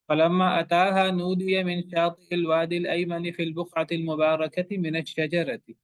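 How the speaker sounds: slow, measured Quranic recitation. Acted. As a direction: recite the verse slowly and reverently.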